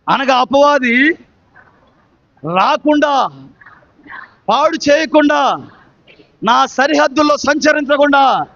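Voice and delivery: phrase by phrase, long pauses between; preached declaration. Real, not acted. Preacher leading the congregation to declare God's hand against Satan, preached declaration. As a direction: proclaim it for the congregation to repeat.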